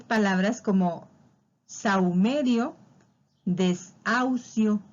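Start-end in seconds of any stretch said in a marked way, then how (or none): 1.7-4.8 saumerio, desahucio very slowly, AU held as one glide; slow, drawn-out teacher enunciation of saumerio, desahucio; demonstrating diphthongs. Shown as a demonstration. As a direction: sound out saumerio and desahucio at half speed. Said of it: "Ahí está el diptongo".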